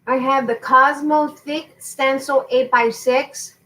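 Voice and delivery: talking while crunching ice; words round a mouthful of ice; chewing ice. Real, not acted. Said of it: "sorry, I'm chewing ice".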